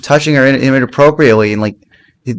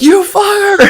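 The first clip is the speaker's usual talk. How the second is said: mock outrage; slower than usual. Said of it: "And he's like".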